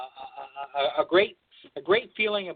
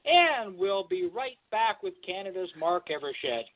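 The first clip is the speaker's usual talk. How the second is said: slow, smooth announcer voice going to break; slow TV host sign-off; slower than usual. Retold or imitated. Host tells viewers they'll be right back, slow announcer voice. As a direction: draw it out like a host sending to commercial. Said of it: "and Peter says".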